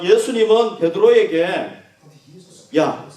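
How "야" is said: gentle love. Retold or imitated. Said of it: "하는 의미를 담고 있다고".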